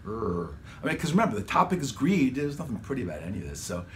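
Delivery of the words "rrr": low menacing growl; ominous growl. Shown as a demonstration. Demonstrating the ominous undertow voice for the track, low growl. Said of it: "the ominous voice underneath to give it that".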